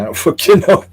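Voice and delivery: high-pitched, through a laugh; laughing admission. Real, not acted. Streamer admitting he has no idea about death, laughing. Laughs at own not knowing.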